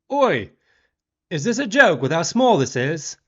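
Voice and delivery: high, loud indignant complaint; imitated angry outburst; mock outrage. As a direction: act out a rude diner berating staff. Rude diner berates the waitress.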